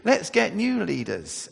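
high fretful lament; light hammed-up wail, pitched high; mock wailing. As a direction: imitate the crowd crying all night. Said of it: "wailing and crying and saying".

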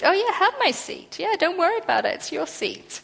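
high, overly accommodating meek voice; a hammed-up pushover offering the seat; mock pushover voice. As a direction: play the doormat who gives in. Mock doormat giving up seat.

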